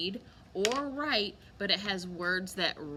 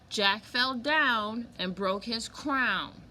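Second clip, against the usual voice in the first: slow, louder, stressing "down" and "crown"; slow emphatic reading; 3 dB louder, slower than usual. Shown as a demonstration. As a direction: lean on the rhyming words slowly. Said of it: "I'll read it again".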